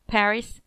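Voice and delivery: "Paris" with weight on Pa-; strong first, light second syllable in "Paris"; trochaic stress. Shown as a demonstration. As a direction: say "Paris" as PA-ris.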